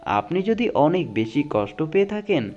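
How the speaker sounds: dramatic reading of life quotes; motivational quote recitation. Acted. Reading life advice to viewers, earnest dramatic recitation. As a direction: recite each saying like a moving lesson.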